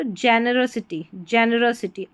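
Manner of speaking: generosity with "ro" said as a short र; slow, careful generosity, short "ro"; demonstrated pronunciation. Shown as a demonstration. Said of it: "आर ओ को र करके pronounce करेंगे". ("generosity" में आर ओ को र बोलकर)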